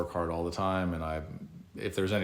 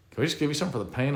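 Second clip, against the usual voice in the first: mock pleading doctor; 8 semitones higher, 4 dB louder, much faster than usual. Mimicking doctors' pleading offer.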